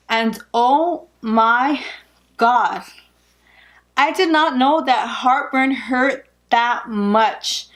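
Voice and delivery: slow, drawn-out disbelief, pausing between words; pained emphasis. Real, not acted. Expectant mother telling viewers about heartburn, pained emphasis. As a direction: stretch each word to stress the pain. Exclaims over how bad it hurts.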